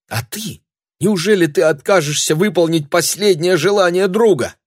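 high, loud, urgent pleading; young woman pleading, high and tense; pleading girl. A narrator's reading. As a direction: beg him desperately to stay. Milangel pleads with Matthew.

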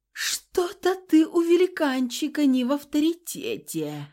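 pained, strained jab, pitched high; mock-pained complaint; moaning gibe. A narrator's reading. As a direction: wince out the tease. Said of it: "простонала я".

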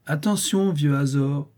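high, teasing call to a dog; dog-trainer command. A narrator's reading. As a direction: order him about like a pet. Boy orders brigand like dog.

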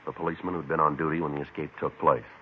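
clipped deadpan police narration; detective narration. Acted. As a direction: narrate it dry and matter-of-fact. Hard-boiled detective narration.

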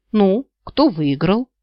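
slow, understated dismay; mildly despondent asking; dejected question. A narrator's reading. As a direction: drag out the question, a touch crestfallen. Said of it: "удручённо спросила моя жадность".

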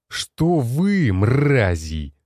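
sudden high furious outburst; snapping in rage. Acted. Commander loses his temper and screams insults at the generals. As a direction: explode at them, no longer holding back. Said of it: "не выдержал он".

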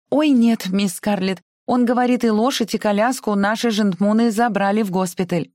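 put-on high, breathless servant girl; frightened maid voice. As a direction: squeak it out in fear. Prissy character voice.

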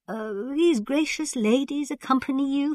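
put-on very high, courtly old man; thin old ruler. A narrator's reading. Khan asking about the ladies, high thin voice.

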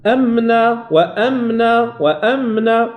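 وأمنا with the م held through the nose; nasal م. Shown as a demonstration. Teacher modelling the nasal hold in وأمنا. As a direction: let the م of وأمنا hum a moment. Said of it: "تاخذ الصوت من الخيشوم".

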